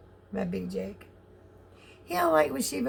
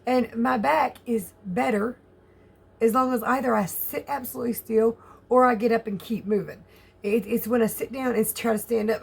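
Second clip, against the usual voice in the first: usual speaking voice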